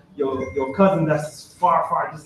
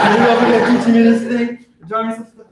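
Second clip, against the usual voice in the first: imitating the architect, higher and louder; mock architect; 7 semitones higher, 6 dB louder than usual. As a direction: play the surprised architect. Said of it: "he was all like".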